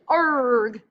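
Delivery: loud, hammed-up pirate "Arg"; teacher hams up a pirate cry for her students; pirate growl. Shown as a demonstration. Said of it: "he talks kind of funny like a pirate".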